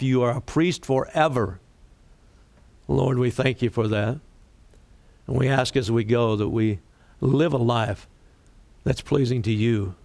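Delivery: pastor praying over the congregation, reverent; closing prayer. Acted.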